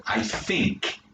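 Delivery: Cockney "think" said as "fink"; Cockney accent. Shown as a demonstration. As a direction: swap TH for F like a Cockney. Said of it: "no T H either".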